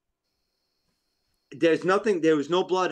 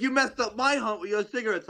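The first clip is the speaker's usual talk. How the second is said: mock annoyed hunter; 8 semitones higher than usual. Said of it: "he's like".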